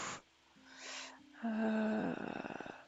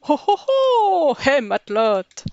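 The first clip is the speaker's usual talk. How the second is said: pirate voice; 7 dB louder than usual. Acted. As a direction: ham up a jolly old sea dog. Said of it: "je sais pas faire les voix de pirate".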